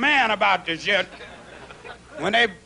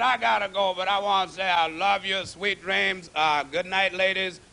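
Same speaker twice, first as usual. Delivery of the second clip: tender farewell; 5 semitones lower, 4 dB quieter than usual. Real, not acted. Soft goodbye to audience.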